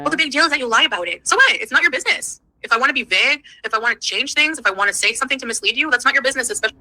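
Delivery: heated, rising pitch, defending herself; snapping back at her critics; mad rant. Real, not acted. Streamer firing back at haters, heated and indignant. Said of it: "She's so mad that she slipped into a Canadian accent".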